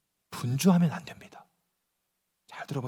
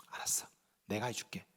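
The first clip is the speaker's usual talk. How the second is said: gentle reassurance; 11 semitones lower, 19 dB quieter than usual. Retold or imitated. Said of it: "아니면, 아니면".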